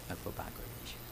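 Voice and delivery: whispered, breathy repeat. Acted. Preacher whispering the promise to the congregation.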